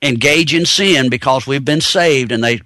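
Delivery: dry sarcastic mockery. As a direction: say it with a sarcastic edge. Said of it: "I'm being sarcastic here".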